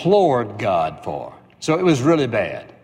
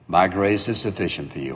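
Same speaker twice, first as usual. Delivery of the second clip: lower, softer, steady divine reply; God's calm answer; 5 semitones lower, 3 dB quieter than usual. Acted. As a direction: say it quietly as God, unmoved. God's answer voiced again.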